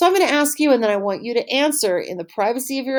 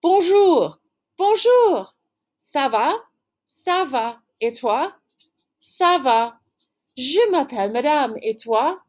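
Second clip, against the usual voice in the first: reading both parts with a raised, bright greeting; acted dialogue; 3 semitones higher than usual. Shown as a demonstration. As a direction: act out both sides of a greeting. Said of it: "the whole conversation goes like this".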